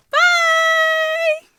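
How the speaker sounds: high, loud sign-off bye; bright shouted bye. Real, not acted. Youtuber waving off her viewers, a high loud bye. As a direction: sing out a goodbye to viewers.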